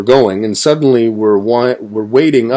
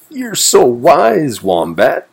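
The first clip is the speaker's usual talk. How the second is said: admiring cry; 5 semitones higher, slower than usual. Acted. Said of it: "cried Woodchuck".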